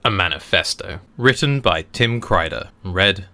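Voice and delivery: measured, deliberate reading voice; essay read aloud. Acted. Reading a manifesto to listeners, measured narration.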